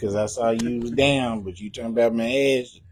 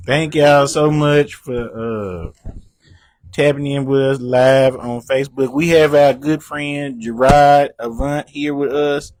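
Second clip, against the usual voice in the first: trying not to smile. Real, not acted. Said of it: "I can't keep a straight face".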